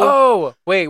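sudden high surprised oh; remembering all at once. Real, not acted. Sudden recall, high and loud.

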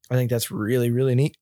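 talking through hiccups; words broken by a hiccup. Real, not acted. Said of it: "Somebody's got the hiccups".

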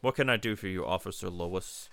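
lightly imitated robot-cop inflection; understated cyborg officer imitation; RoboCop. Shown as a demonstration. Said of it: "He has an inflection with it".

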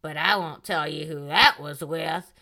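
lightly voiced teasing drunk woman; a hint of Denise confiding to the camera; coy Denise to camera. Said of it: "she turns to the camera and says".

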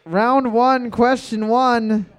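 game show host kicking off; quizmaster announcement. Real, not acted. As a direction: announce it big, stretching the end. Host announces question to the room.

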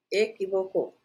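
"Equivocó" said clearly, stress on the final ó; teacher modelling the word. Shown as a demonstration. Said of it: "no es E, e, e".

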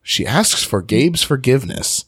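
over-enunciated "She asks for Gabe's forgiveness"; tongue-twister practice on "Gabe's forgiveness"; vocal warm-up. Shown as a demonstration. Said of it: "It's a vocal warm up".

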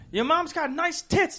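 high, drawn-out taunt; play-acted squabble; mock arguing. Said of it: "We sound like we're in an argument".

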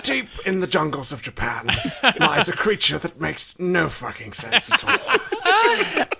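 slow solemn documentary voice; nature documentary narrator. Retold or imitated. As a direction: narrate like a wildlife film, slowly.

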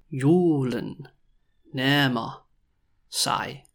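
Julen nærmer sig slowly, a pause after each word. Shown as a demonstration. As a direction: separate every word for learners. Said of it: "when I say it really slowly".

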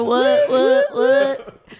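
squeaky high what what what; surprised. Pretend. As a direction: yelp it in mock shock. Playful mock surprise.

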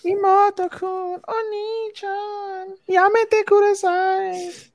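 put-on very high, slow, cutesy anime girl plea; hammed-up high-pitched anime girl begging; mock anime girl. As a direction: squeak it out like a whiny anime little sister. Mocking anime little sister.

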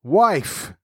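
understated giant's cry. A narrator's reading. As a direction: call out as a storybook giant, without shouting. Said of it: "cried the giant".

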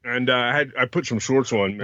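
talking while chewing gum; words round a wad of gum. Real, not acted. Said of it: "What are you eating?".

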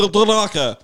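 laughing Wookiee-like growl; Chewbacca growl. Retold or imitated. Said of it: "he's auditioning for Chewbacca".

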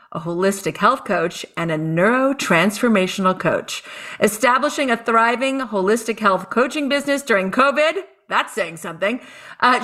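bright show-host intro; announcer voice. Acted. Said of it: "I like to put on my announcer voice".

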